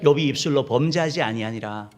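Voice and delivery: loud, measured scripture recitation; leading a repeat-after-me. Shown as a demonstration. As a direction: give the congregation a firm line to echo. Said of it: "따라합시다". (따라 하도록 또박또박 큰 소리로 선창)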